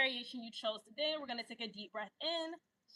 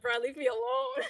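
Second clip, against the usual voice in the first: mock panicked plea; 6 dB louder than usual. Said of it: "I'm like".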